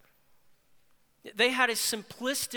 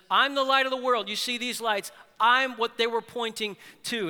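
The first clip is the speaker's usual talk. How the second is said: proclaiming; 3 semitones higher, 5 dB louder than usual. Acted. Jesus proclaims at the festival.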